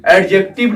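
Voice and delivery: "एडजेक्टिव" with the d sounded before the j; wrong pronunciation. Shown as a demonstration. Teacher showing students what not to say, "एडजेक्टिव" with a sounded d. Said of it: "नहीं बोलना है".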